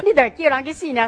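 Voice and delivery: high, loud, mocking devil voice cackling a threat; devil's voice. Woman voicing the devil's threat in her testimony, mocking and high. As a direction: cackle then jeer like the devil.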